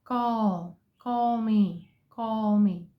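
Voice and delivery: "call me" with American aw; American English call. Shown as a demonstration. Teacher showing US pronunciation, American call. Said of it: "American English, we say".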